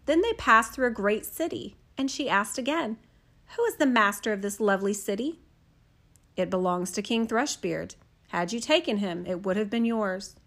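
soft, even fairy-tale reading; gentle storyteller voice; storybook narration. A narrator's reading. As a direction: read it like a bedtime story. Reads a fairy tale aloud.

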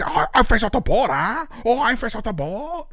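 high-pitched, outraged mock Asian accent. Offended kid repeats the insult back, high mock Asian accent. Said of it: "that crazy Asian accent is funny".

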